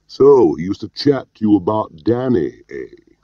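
pert Scots probing, loud start; Allaline's Scottish brogue. A narrator's reading. Boss probes what Tar told Gwilym, Scottish brogue. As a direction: dig slyly in a Scottish accent. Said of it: "his pert Scottish brogue".

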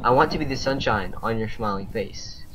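lyrics spoken in measured lines; reading out lyrics. Shown as a demonstration. Player presenting friendship song lyrics to teammates, spoken recitation. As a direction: recite the song without singing it. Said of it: "I'll read them, I won't sing them".

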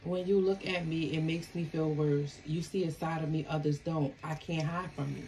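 a quiet first pass over the message; soft card reading. Shown as a demonstration.

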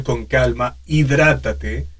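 usual speaking voice

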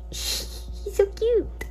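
breathy, slow and high through laughter; laughing gush. Real, not acted. Gushing, laughing at dog.

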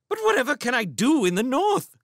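high-pitched, loud protest; dismayed. Acted. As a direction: protest in bewildered alarm. Dismayed at being sent north.

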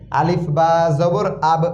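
"আলিফ বা জবর" spelled out into one syllable, "আব"; joined pronunciation. Shown as a demonstration. Teacher showing how hasanta joins letters, spelled-out "আলিফ বা জবর আব". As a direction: close "আব" straight onto the b. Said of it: "যুক্ত হওয়ার কাজ করে".

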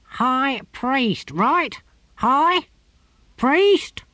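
nervous disbelief; the gardener balking at the order; panicked gardener. A narrator's reading.

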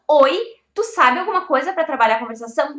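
loud incredulous "Oi?"; exasperated teacher, disbelieving. Real, not acted. Incredulous reaction to student.

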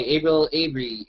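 normal talking voice

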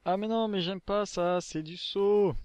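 drawn-out, dismayed protest; dismayed whine. Real, not acted. Dismayed at a jumping section.

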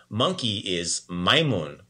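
usual speaking voice

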